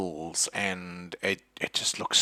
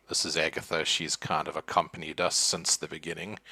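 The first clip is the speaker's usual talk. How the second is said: dismissive; 4 semitones lower, 3 dB quieter than usual. Acted. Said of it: "It's a little bit dismissive".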